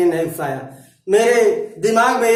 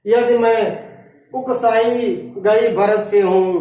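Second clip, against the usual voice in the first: verse recitation. Acted. Teacher voicing Kaikeyi's oath for students, measured verse recitation. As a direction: recite the verse with deliberate breaks.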